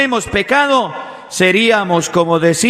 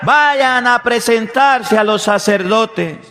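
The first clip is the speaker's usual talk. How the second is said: raised-pitch command, only mildly shouted; imitated calling out; 5 semitones higher than usual. Jesus sending lepers to the priests, imitated calling out. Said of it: "Es el mismo grito que Jesús nos hace".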